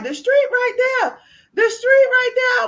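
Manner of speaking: son pointing. Retold or imitated. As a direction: call it out like an eager child. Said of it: "So he was like".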